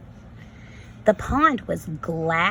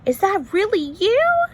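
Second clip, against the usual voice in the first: higher, louder joyful reply; shouting back; 11 semitones higher, 6 dB louder than usual. Acted. Farfalina shouts back to Marcel, overjoyed. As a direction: cry out with delight. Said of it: "Farfalina shouted back".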